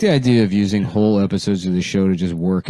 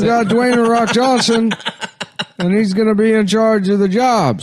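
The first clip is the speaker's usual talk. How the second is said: high put-on voice; 11 semitones higher than usual. High voice announcing a cabinet.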